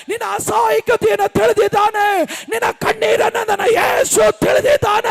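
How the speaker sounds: impassioned preacher, voice building to a shout; fervent preaching. Real, not acted. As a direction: preach it with rising force. Preaches at full force. (ಆವೇಶದ ಬೋಧನೆ)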